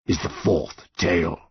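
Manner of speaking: slow, measured monster voice; yew tree monster. A narrator's reading. Yew tree behind the boy, solemn monster voice. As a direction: intone it slowly like an ancient tree.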